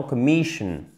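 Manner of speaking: "commission" stressed on the middle syllable; "commission" with stress just before the ending; stress before -sion. Shown as a demonstration. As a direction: hit the "mi" in "commission", then let it fall. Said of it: "On a l'accent tonique juste avant".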